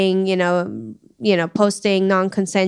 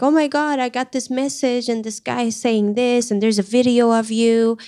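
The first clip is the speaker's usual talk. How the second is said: panicked mom; 4 semitones higher than usual. Retold or imitated. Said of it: "like, freaking out".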